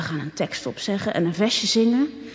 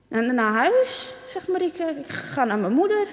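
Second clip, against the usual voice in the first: put-on frightened girl; 6 semitones higher than usual. A narrator's reading. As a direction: stammer it out, afraid. Frightened girl answers bully.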